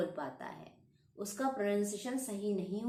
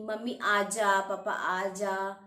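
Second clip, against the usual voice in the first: put-on louder, slow, childlike calling to mummy and papa; imitating a small child; 4 dB louder, slower than usual. Shown as a demonstration. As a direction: call out like a toddler wanting parents home. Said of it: "मैं example दे रही हूँ". (छोटे बच्चे की तरह धीरे और ज़ोर से पुकारना)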